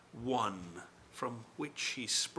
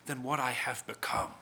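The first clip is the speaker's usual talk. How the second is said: defiant retort; 4 dB louder than usual. Acted. Defiant reply, loud then whispered.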